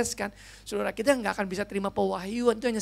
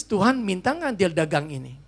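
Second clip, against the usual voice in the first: ordinary delivery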